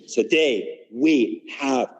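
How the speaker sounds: slow, proud, confident; with conviction. Shown as a demonstration. Teacher leads the class in a confident pledge. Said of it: "proud and confident and say it with conviction".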